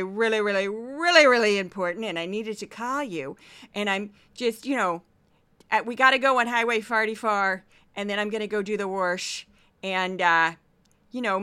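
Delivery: put-on loud, chatty mom with a thick Saint Louis accent; mom's Saint Louis accent. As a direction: imitate a rambling Saint Louis mother on the phone. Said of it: "Here's my mom".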